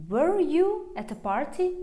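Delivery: high-pitched question, rising on "party"; question intonation. Shown as a demonstration. Teacher asking whether you went, rising yes-or-no question. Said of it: "If I want to ask you".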